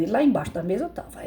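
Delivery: ordinary talk, nothing marked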